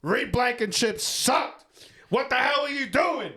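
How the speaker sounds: real frustration. Real, not acted. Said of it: "I'm pissed off".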